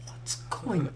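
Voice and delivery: a parent stirring in bed, lightly voiced; groggy parent. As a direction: parents woken up in the night, mumbling sleepily.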